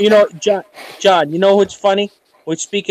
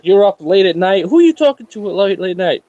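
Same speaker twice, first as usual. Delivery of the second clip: questioning wife; 3 semitones higher than usual. Retold or imitated.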